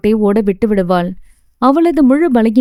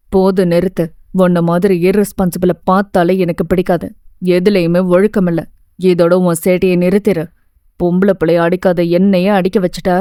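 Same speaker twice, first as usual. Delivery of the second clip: a lightly lowered, stern teacher's voice; stern teacher scolding; 4 semitones lower than usual. Acted. Teacher scolding a student who misbehaved, lightly lowered stern voice. என திட்ட.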